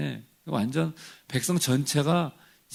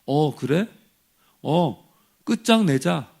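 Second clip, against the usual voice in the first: louder, higher mock exasperation; fed-up God; 3 semitones higher, 6 dB louder, slower than usual. Preacher imagining God fed up with the grumbling people, mock furious. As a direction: play a God who has finally had enough. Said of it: "제가 하나님이었으면".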